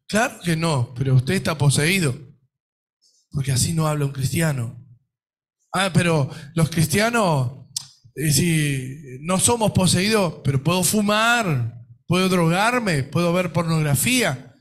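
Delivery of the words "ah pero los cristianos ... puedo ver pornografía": mocking excuse. Mocking excuses of lax believers.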